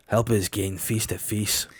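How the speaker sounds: low mock Scottish accent. Shown as a demonstration. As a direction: mutter it like a Scotsman. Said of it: "like a Scotch person".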